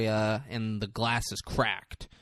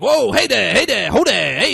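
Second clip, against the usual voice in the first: louder, much higher commanding call; retold yell; 9 semitones higher, 11 dB louder than usual. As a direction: call out to stop the raptors. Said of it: "He's yelling".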